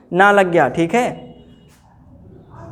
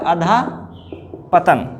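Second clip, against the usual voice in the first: अधापतन stretched out, a-dhaa-pa-tan; slow dictation; much slower than usual. Shown as a demonstration. Teacher answering a spelling question, very slow. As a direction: sound out अधापतन slowly. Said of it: "क्या होता है?".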